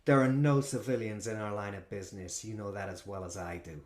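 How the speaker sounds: disdainful vampire correction; a hint of a cold vampire. Vampire rebukes manager.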